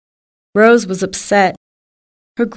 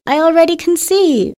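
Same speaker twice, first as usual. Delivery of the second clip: excited; 7 semitones higher than usual. Acted. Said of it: "Rose said".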